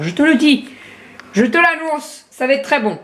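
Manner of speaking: lilting accent from the south of France; southern French regional twang. Real, not acted. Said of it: "On a changé de région en deux secondes".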